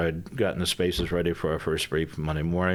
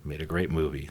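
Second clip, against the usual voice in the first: hushed aside; 6 dB quieter than usual. Real, not acted. Joking aside about the F fourteen.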